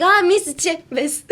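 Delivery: high, loud mock frustration with tongue click; mock annoyance at your own mistake; quick frustrated exclamation. Shown as a demonstration. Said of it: "you gotta do it really fast".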